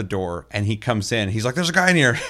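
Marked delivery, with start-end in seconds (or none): 1.5-2.2 high, loud mock alarm; alarmed shout. Imitating Cody shouting that an enemy is inside, high and loud. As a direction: bark out the warning. Friend mistakes him for enemy.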